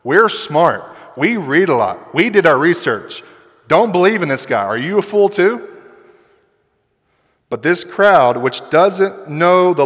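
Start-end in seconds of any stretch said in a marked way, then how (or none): 0.0-5.7 mock self-important boasting; arrogant. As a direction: lightly act a smug know-it-all. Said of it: "arrogant thing to say".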